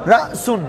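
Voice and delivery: "রাসুন" with a sharp catch after রা; glottal catch. Shown as a demonstration. Teacher showing students the hamza's push, glottal catch in "রাসুন". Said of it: "একটা ধাক্কা আসতেছে কিনা".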